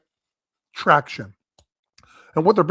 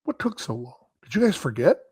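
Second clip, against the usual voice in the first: Larry David impression; 4 semitones higher, 5 dB quieter than usual. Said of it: "like Larry David".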